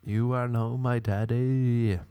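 mock wail. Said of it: "I was still wailing".

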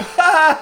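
gleeful gotcha laugh. Retold or imitated. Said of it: "And I went".

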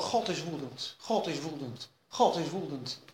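anxious doubting mutter. Acted. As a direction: murmur it over and over like creeping doubt. Doubting believer repeating the fear.

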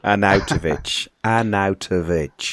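Arnautovic spelled out slowly, ar-NOW-toh-vich; careful pronunciation. Shown as a demonstration. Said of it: "teach how to".

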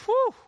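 loud exhaled "whew"; awed whew. Real, not acted. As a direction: let out an impressed whew. Preacher reacts to profound quote.

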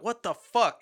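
high, loud "what the fuck"; baffled fans. Retold or imitated. Fans reacting to a character killed off too soon, high and loud. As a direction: squeal it like a baffled fan.

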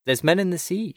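high-pitched urgent report; breathless alarm. A narrator's reading. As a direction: raise the alarm after running up.

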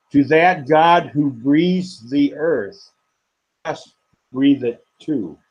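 measured, unhurried reading of a prayer poem; poetry reading. Acted. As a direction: lift each line gently, let pauses breathe. Poet reads his poem aloud.

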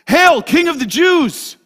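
loud, slow, sarcastic hail; mocking shout. Soldiers mocking Jesus in the fortress, loud sarcastic hail.

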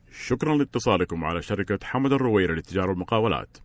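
polished phone menu announcer; customer service voice. Shown as a demonstration. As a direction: read it like an automated hotline greeting. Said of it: "بسرعة، شيء ارتجالي".

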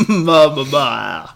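slack jaw babbling ma ma; floppy jaw ya ya drill. Shown as a demonstration. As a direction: let the jaw flop on each ma. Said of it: "My mouth is just ma".

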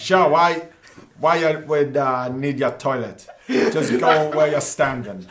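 slow, drawn-out attempt at a Dundalk accent. Podcast guest attempts a challenge line for the host, shaky Dundalk accent. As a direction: have a laughing go at a Dundalk accent. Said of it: "In a Dundalk accent, can, can you say that".

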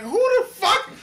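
high, incredulous outburst; high-pitched what-the-hell disbelief; retold bewilderment. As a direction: blurt it out, baffled and indignant. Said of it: "I'm looking at her like".

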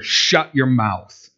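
slow, stern command; harsh rebuke. Acted. Preacher voicing Jesus in modern vernacular, harsh. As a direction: order silence with measured severity. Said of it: "his statement was that harsh".

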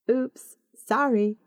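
a mild hint of giggle, drawn out; giggly apology. A narrator's reading. Naomi apologising after being shushed, mildly giggly. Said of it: "she giggles".

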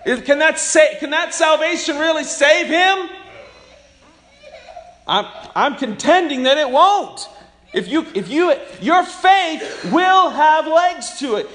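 high and loud, building with laughs into a shout; preaching at full force. Acted. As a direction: drive it home like a fired-up preacher.

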